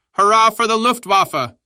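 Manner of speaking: very high, loud soldiers' cheer; roaring group-style hurrah; shouted cheer. A narrator's reading. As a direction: yell it in wild jubilation. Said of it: "we all shouted".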